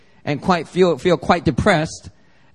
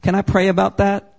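meek polite reply. Retold or imitated. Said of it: "you shouldn't be like".

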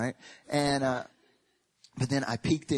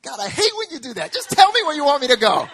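mock exasperation; 15 dB louder than usual. Exasperated prayer.

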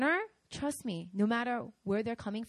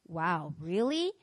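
slow, underwhelmed reaction; drawn-out sceptical question; mock doubtful; 3 semitones lower, much slower than usual. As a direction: feign interest without celebrating. Acting uncelebrating, doubtful listeners.

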